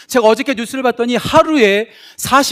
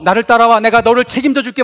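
mock cult leader pitch; 8 dB louder than usual. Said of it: "누군가가 나한테 와서".

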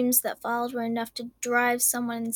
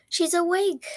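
relieved sigh; 7 semitones higher, 3 dB louder than usual. Acted. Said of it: "one voice sighed with relief".

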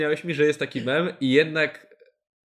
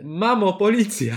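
louder, higher, drawn-out warning call; mock parrot cry; 5 semitones higher, 4 dB louder, slower than usual. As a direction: cry out like a parrot raising the alarm. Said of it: "co mogła krzyczeć papuga".

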